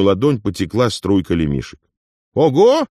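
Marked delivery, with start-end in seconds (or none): 2.3-2.9 a loud, much higher cry of amazement; exclaimed loudly. Acted. Afonya sees the coins pouring out, a loud high cry. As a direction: yell it out, astonished. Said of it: "возопил Афоня".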